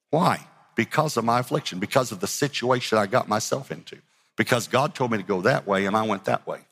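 ordinary talk, nothing marked

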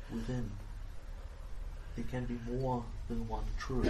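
fortune teller. Acted. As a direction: speak like a mysterious fortune teller. Fortune teller reading continues.

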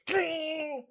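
loud, high shouted guitar twang; imitating an amp cranked loud as hell; imitated guitar chord. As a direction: belt out a blaring chord sound. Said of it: "loud as hell".

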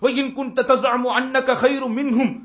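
slow, measured Arabic quote; slow Arabic recitation. Retold or imitated. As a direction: draw out each Arabic word. Quoting Arabic words slowly. (மெதுவான அரபு ஓதல்)

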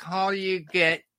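comic English impression; English accent. Russian comic imitating English folks telling a joke, English accent. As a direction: tell it as a mock English club joke. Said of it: "Or, or the English folks".

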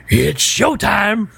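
very slow, drawn-out; slow dramatic line. Retold or imitated. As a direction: savor each word slowly. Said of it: "when Pat Morita says".

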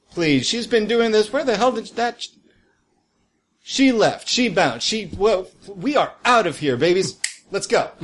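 high, indignant retro hustler; outraged at being ditched; shocked gangster. Acted. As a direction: boss abandoned by his partner. GM voicing Retro Rad.

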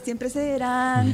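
drenched in echo reverb; echo effect. Real, not acted. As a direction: voice with heavy echo. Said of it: "Pongo eco en algún momento".

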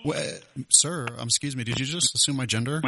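lightly voiced woman named Regina, hesitant; a hint of a lonely lady asking shyly; female prank voice. Host in a light woman's voice calls the gun shop. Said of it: "acting like a female".

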